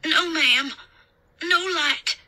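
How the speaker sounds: put-on high child voice; small, high rustic voice; little Southern boy. A narrator's reading. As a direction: answer like a scared country boy. Boy answers the babysitter.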